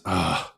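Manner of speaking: exasperated groaning sigh; weary sigh. Acted. Innkeeper facing his accuser yet again, weary sigh. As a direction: sigh at the troublemaker. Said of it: "Bentley sighs and says".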